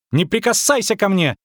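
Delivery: put-on high-pitched girlish shriek; squealing. A narrator's reading. Girl to the witcher, squealing. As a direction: squeal in indignant protest. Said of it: "взвизгнула она".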